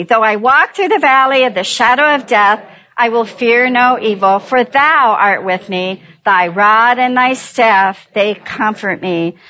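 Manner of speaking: leading scripture recitation. Acted. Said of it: "say it with me".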